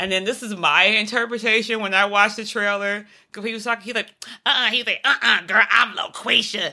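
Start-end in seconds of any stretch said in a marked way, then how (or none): 3.9-6.7 man using a fake, put-on woman's voice. Giving her take on a trailer where a man posed as a woman, imitating a man faking a woman's voice. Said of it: "That's how he sounded".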